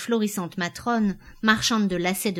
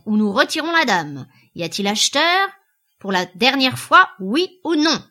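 loud, raised ultimatum; auctioneer's last call; 5 semitones higher, 7 dB louder than usual. A narrator's reading. Auctioneer demanding a final yes or no, calling out. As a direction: press the crowd, pitched up and forceful.

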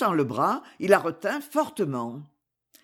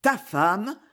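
ta femme, stressing ta with a rise, more passionate. Acted. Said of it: "avec un accent plus passionné". (ta femme, plus passionné, ta accentué qui monte)

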